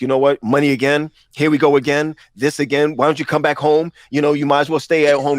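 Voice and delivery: hammed-up fatherly scolding about money; mock exasperated dad. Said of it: "even when I'm mad at him".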